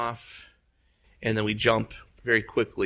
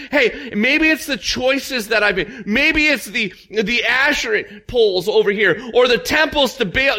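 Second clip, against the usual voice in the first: mock-humble Ahab; 12 semitones higher, 10 dB louder than usual. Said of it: "He never goes".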